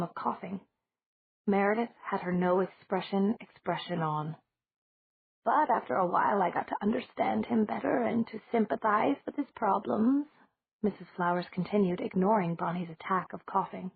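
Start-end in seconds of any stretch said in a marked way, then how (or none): 5.4-10.3 lightly voiced old lady, a touch higher; a hint of a kindly old woman; elderly landlady.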